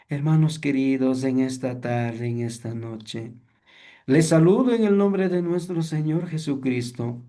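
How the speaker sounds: lightly acted ailing preacher; sickly greeting. Shown as a demonstration. Teacher mimics a preacher greeting the congregation, sounding sickly. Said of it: "Parece que está enfermo".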